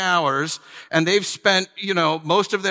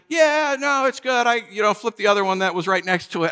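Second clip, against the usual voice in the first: breezy workman; 6 semitones higher than usual. Retold or imitated. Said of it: "And he's like".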